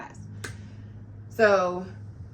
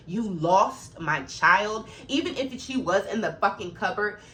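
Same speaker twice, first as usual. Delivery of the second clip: mock parent's anger; 4 dB louder, slower than usual. Voicing the panicked parent.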